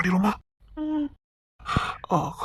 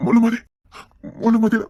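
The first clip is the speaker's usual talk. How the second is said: calling out; 4 semitones higher, 5 dB louder than usual. Acted. Calling name repeatedly.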